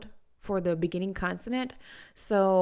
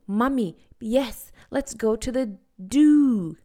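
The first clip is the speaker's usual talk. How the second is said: put-on child voice; 3 semitones higher, 8 dB louder than usual. Shown as a demonstration. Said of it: "cut off that airflow and say do".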